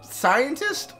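high, questioning character voice; trying out a scientist voice. Acted. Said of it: "what voice?".

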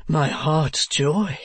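slow, drawn-out endearment; Mr. Mantalini. Acted. Husband sweet-talking his wife, slow drawl. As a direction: draw it out as a doting husband.

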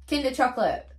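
over-the-top admission of a problem; dramatic. Acted. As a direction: ham up the confession. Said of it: "That was dramatic".

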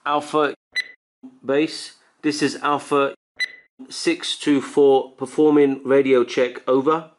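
slow, measured radio call; radio operator voice. Shown as a demonstration. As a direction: call base over the radio. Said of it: "let's give it a go".

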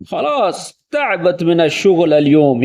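slow, weary, worn out; tired sigh. Shown as a demonstration. Home from work, slumped on the sofa, exhausted. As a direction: drag it out after a long workday. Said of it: "تھکے ہوئے انداز میں".

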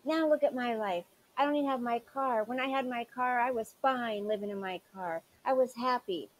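quoting her complaint. Retold or imitated. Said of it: "Didn't you say a few videos ago".

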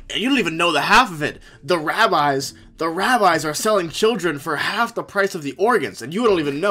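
mock urgent conspiracy lady; lightly hammed-up conspiracy theorist lady; conspiracy rant. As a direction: preach it like a paranoid ranter. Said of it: "goes on this spiel where she's like".

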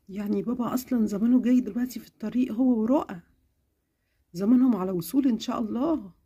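mother answering her sick daughter, tenderly; caring mother. Acted. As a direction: soothe your little girl. Mother reassures.

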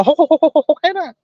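high-pitched mock slurping of greedy eaters. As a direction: squeal the repeated hút way up like someone sucking food down. Mocking greedy diners slurping buffet. (giả giọng hút lấy hút để, cao vút)

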